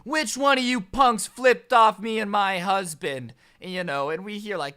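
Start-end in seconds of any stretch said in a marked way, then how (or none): 0.0-3.3 loud, slow, put-on angry Karen voice; mock furious Karen confronting teens. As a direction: bark it like an outraged middle-aged woman.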